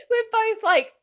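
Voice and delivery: high, laughing through words; squeezed laughter in the voice; silent laugh. Real, not acted. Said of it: "quite a silent laugh as well".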